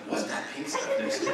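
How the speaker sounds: mock the nosy Instagram commenter. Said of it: "someone's like".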